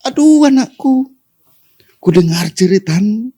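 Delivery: high, loud pained cry to a son; anguished father's cry. Retold or imitated. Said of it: "Bapa di sorga itu menjerit".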